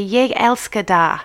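jeg elsker dig said slowly, syllable by syllable; Danish attempt. Shown as a demonstration. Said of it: "my pronunciations will be fun".

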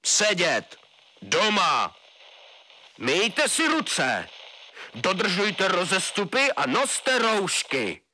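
slow, clipped final orders; slow stern radio commands; curt colonel. A narrator's reading. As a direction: colonel cutting off the question. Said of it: "uzavřel svou řeč k národu plukovník Šamšula".

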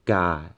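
ga held level and flat; ga on one steady pitch. Shown as a demonstration. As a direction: keep ga dead level all the way. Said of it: "as the flat tone is".

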